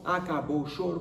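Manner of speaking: ordinary delivery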